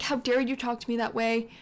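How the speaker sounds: mildly indignant mock outburst; livid, retold. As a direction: voice someone's outrage with a touch of force. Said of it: "Siv is livid".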